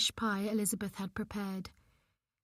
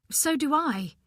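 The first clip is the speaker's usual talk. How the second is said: on a sob; 5 semitones higher, 4 dB louder than usual. A narrator's reading. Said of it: "It came out on a sob".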